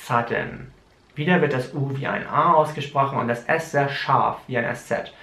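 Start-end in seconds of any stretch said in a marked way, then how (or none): 0.0-0.7 "Sudden" drawn out a little for learners; slower. Shown as a demonstration. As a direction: take "Sudden" more slowly. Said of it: "Ich sag's nochmal langsamer".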